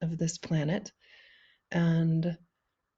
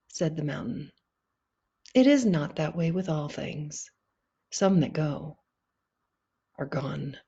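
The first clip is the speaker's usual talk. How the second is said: measured reading with long pauses; poem reading. Acted. Poet reading Eyesight to a library audience, measured poem reading. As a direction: let each phrase settle before the next.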